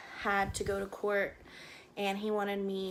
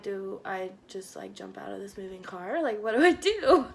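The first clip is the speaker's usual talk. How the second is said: panicked thought; 4 dB louder than usual. Retold or imitated. Panicking in moving car with boyfriend.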